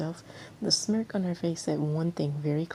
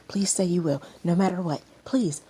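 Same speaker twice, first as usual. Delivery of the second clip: pleading; 5 dB louder than usual. Acted. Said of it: "frightened by his pleading".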